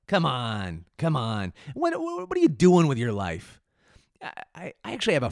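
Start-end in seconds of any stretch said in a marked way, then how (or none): 0.1-3.6 loud, incredulous outburst; telling off the troll, loud and high; exasperated. Retold or imitated. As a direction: throw up your hands at him. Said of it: "I'm like".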